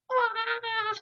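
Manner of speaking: high, drawn-out mock scream; frustrated cry. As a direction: let out an exasperated "aah", held back in volume. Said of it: "you're just like".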